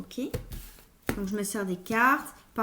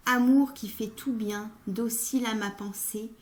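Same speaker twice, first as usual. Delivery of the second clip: lecture de poème. Acted. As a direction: lecture posée d'un poème, vers après vers. Reads a poem aloud. (récitation poétique mesurée)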